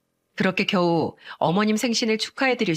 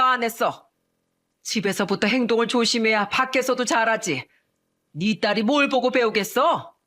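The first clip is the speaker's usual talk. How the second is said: scolding mother. Acted. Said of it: "고함을 치며 말씀하셨죠".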